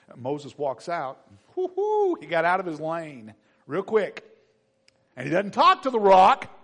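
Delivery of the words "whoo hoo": excited whoop. Real, not acted. Reacting to Moses.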